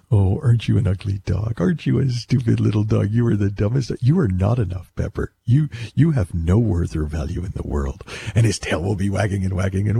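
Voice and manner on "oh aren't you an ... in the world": same sweet tone. Shown as a demonstration. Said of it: "it goes just as fast if I say".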